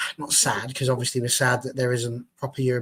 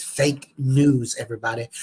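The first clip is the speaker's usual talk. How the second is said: a mock Trump-style American accent drawling fake news; bad American accent. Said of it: "That was the worst American accent I've gone for".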